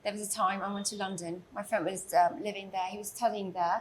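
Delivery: lightly put-on British accent. Telling of a trip to London, British accent. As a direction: chat away in a British accent. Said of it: "like, in, in a Brit accent".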